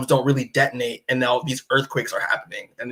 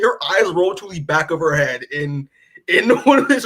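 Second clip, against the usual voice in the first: laughing through the words; giggling retell; 2 semitones higher than usual. Retold or imitated. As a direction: repeat it, breaking into a laugh. Repeats line, laughing.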